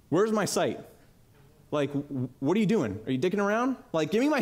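mock angry boss. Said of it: "He was pissed".

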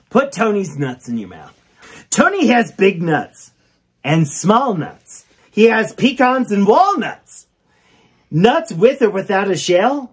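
sing-song storybook reading; reading to children. Acted. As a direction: read it like a kids' rhyme book. Reads the book aloud.

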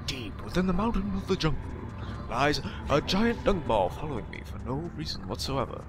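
a lightly voiced grand movie-trailer narrator; epic trailer narrator. Gamer narrating the temple as a mock-epic trailer narrator. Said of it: "I can't do that voice very well".

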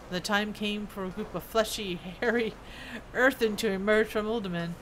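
lightly voiced dwarf recounting old history; reminiscing dwarf smith. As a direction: tell it as a veteran craftsman remembering.

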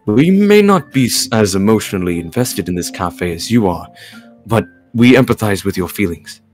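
measured, composed character reading; careful, articulated story-reading delivery; game dialogue read-aloud. Acted. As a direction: voice the lines as a patient mentor. Reads game character's lines.

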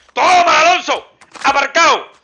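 loud, slow, high triumphant taunt; taunting yell. Real, not acted. Player gloating over a downed enemy named Alonso, yelling. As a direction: gloat over the beaten rival.

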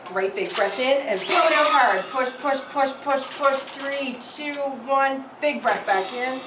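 loud, urgent push-push cheering; coaching shout. Real, not acted. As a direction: drive the patient on, loud and high. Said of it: "I'm gonna count down and really push you hard".

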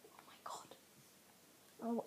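slow, breathless whisper; scared whisper. Real, not acted. Gamer spooked in a dark cave, slow whisper.

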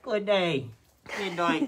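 put-on high amateur British accent; attempted British accent. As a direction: introduce cats in a silly British voice. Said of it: "that accent you're doing".

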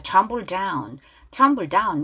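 "Tumble down" with the first of the meeting Ds swallowed; weak first D. Shown as a demonstration. Teacher shows repeated D to learners, first one weakened. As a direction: merge into one D at "down". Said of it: "앞에 드 약하게 가죠".

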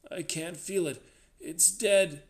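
frightened, rising wail; whimpering terror. A narrator's reading. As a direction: report it in mounting horror. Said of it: "His voice ran up into whimpering terror".

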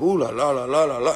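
mock French sing-song in a put-on voice; imitating friends hamming up French sounds. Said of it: "they'll be like".

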